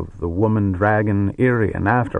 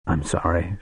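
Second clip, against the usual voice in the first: weak harsh voice; 3 semitones lower, 4 dB quieter than usual. Acted. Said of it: "said stiffly in her weak, harsh voice".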